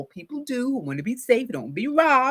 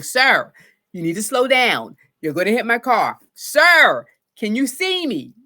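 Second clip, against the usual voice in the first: polite professional; 8 dB louder than usual. Retold or imitated. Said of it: "I'm speaking very nicely, very professionally".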